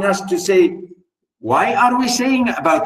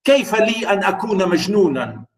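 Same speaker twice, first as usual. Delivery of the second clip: mock pleading narrator; faster than usual. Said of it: "He wants to say".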